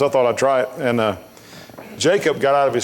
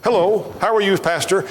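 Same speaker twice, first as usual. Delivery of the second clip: lightly mimicked eager greeting, pitched up; higher-pitched mock hello; mimicked money-seeker; 5 semitones higher than usual. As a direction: greet like someone about to ask a favour. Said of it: "it's like".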